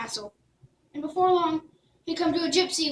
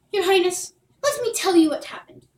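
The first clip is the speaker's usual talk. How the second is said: put-on earnest boy; 4 semitones higher, 5 dB louder than usual. Jack addresses princess.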